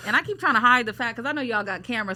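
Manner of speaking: talking through a missing front tooth; gap-toothed speech, missing a front tooth. Real, not acted. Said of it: "you can see my tooth fell out".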